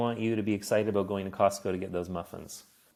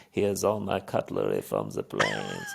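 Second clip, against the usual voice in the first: much lower, proudly showing off the stolen cutlery; German professor; 12 semitones lower than usual. Retold or imitated. Quoting the German professor showing off her loot, low voice. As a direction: drop deep to play the professor. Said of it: "she was like".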